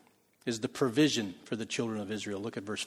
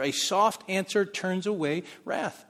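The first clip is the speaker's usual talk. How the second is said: slow, emphatic repetition of the proverb; slow scripture reading; 5 semitones higher, slower than usual. Shown as a demonstration. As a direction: say it slowly as a truth. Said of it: "there's truth there".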